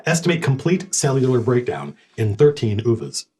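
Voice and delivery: lightly voiced, uninflected ship computer; measured machine-like readout; non-inflected ship intelligence. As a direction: report it with little inflection. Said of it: "It's very kind of non-inflected".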